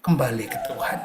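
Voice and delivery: low, soft voice of God saying Kembali. Acted. God's one message to the distant, low and soft. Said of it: "suara Tuhan akan cuma ngomong itu".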